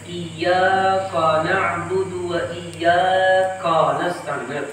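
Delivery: iyyaka with a thick, heavy kaf, recited slowly. Shown as a demonstration. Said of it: "Menebalkan huruf kaf". (kaf iyyaka dibaca tebal)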